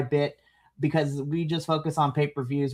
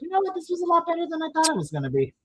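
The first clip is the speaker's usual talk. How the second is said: much higher, quick, pleasantly surprised; surprised inner voice; 12 semitones higher, 3 dB quieter, much faster than usual. Retold or imitated. Fan admits the match beat expectations, high and quick. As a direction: squeak it out fast, caught off guard. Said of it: "but I was like".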